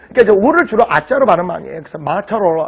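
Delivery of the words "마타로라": "마타로라" with open A but a hard T kept; half-converted pronunciation. Shown as a demonstration. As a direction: say "마타로라" with the T unsoftened. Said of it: "마타로라고도 안 하죠".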